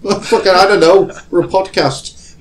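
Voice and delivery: mock-furious protest; exasperated shout. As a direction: snap back in comic outrage. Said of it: "And we say".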